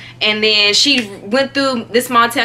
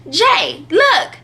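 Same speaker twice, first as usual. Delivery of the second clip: imitated call, jumping higher on the last word; 5 semitones higher than usual. Boy calls his friend to look, calling out. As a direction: call a friend over to see.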